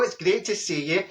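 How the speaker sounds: plain-ish polite greeting; smiling politely; fake smile greeting. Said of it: "put on your smile and go".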